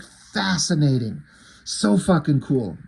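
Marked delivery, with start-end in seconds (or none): 0.0-1.2 slow, savoured fascinating; fascinated. Retold or imitated. Reader savouring the skeleton panel, slow and impressed. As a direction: draw it out, impressed. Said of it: "I'm like".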